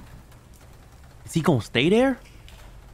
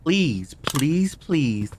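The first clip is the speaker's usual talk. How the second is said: begging; 4 semitones higher, slower than usual. Real, not acted. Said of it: "I beg of you".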